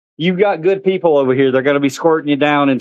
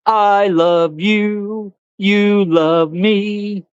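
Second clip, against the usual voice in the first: slow pet talk; 5 semitones higher, much slower than usual. Real, not acted. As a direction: coo each word slowly to a beloved pet. Baby talk to the animal.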